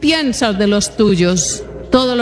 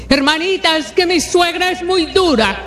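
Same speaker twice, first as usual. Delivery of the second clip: higher, plaintive church sister griping; a lightly voiced complaining woman; mock whiny complaint; 6 semitones higher than usual. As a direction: play a put-upon sister moaning about her mother-in-law. Church sister complaining about mother-in-law.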